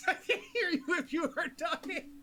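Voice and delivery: high voice breaking with laughter; laughing tease. Pretend. Game master teasing the whispering player, laughing.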